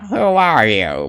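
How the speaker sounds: slow, drawn-out nerdy question. Pretend. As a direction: ask it like a timid nerd. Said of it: "go with the nerdy voice".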